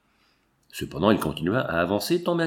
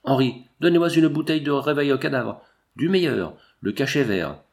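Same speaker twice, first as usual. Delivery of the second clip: called out; 3 semitones higher than usual. Acted.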